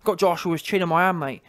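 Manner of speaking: lightly imitated Kiwi trash talk; a hint of caricatured New Zealand accent; mock New Zealand accent. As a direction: mimic a chatty New Zealand boxer. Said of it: "he was giving it a good talk".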